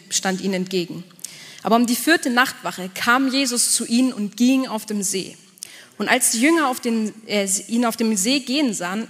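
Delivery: measured reading of Bible text; scripture reading. Acted. Pastor reading Matthew to the congregation, scripture reading voice. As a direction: read the passage aloud to the church. Reads Bible passage aloud.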